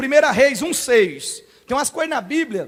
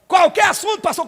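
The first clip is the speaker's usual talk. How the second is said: doubtful mock question, rising on qualquer; incredulous question; 5 semitones higher than usual. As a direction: ask Qualquer assunto as if it can't be true. Congregant asks in disbelief.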